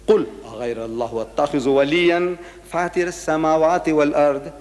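measured Arabic chant with held endings; Quran recitation. Real, not acted. Preacher quotes what Allah says, reciting. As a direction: recite it as sacred verse.

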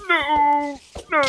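loud, high yelp of alarm; startled shout. Real, not acted. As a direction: shout as the mob hits. Mob attacks him in game.

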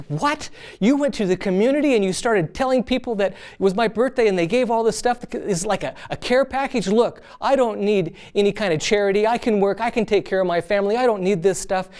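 retelling an offended porter, voice lifted a little; mock indignant outburst. Retelling the porter refusing the girl's charity, mildly indignant. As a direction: push back with mild, retold pride. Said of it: "And he got mad".

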